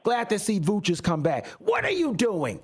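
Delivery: high, heated fan rant; exasperated rant. Real, not acted. Fan ranting to co-host about the Bulls, exasperated and worked up. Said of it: "Okay, that's my rant".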